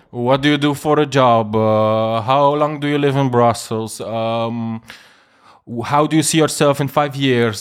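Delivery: lightly put-on Italian accent in English. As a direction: ask like an Italian speaking English. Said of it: "Italiaanse met een Engels accent".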